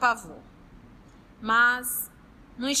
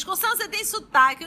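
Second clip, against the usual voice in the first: questioning bystander; 8 semitones higher, 5 dB louder, much faster than usual. Retold or imitated. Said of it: "O povo diz".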